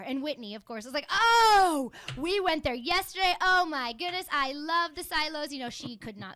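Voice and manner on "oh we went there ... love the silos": loud, high gushing; higher, louder giddy fan; gushing friend. Retold or imitated. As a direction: imitate a starstruck fan who cannot stop.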